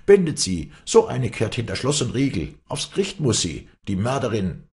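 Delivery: high, loud accusing cries; shouting mob. A narrator's reading. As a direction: clamour against her, starting loudest. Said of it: "schrien die Leute durcheinander".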